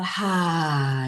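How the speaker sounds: long sighing "ha" on the out-breath; voiced breath release; exhaled ha. Shown as a demonstration. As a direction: let a big breath out as a drawn-out "ha". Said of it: "And as you breathe out".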